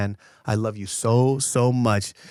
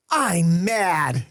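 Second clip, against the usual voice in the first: put-on pouty kid voice; 6 semitones higher than usual. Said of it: "he just goes".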